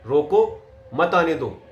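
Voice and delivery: rising "रोको", brief break, then "मत आने दो"; pause after रोको. Shown as a demonstration. Coach demonstrates stopping someone, pause after रोको. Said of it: "उसको मैंने जोर दे के बोला".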